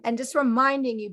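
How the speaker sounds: ordinary talk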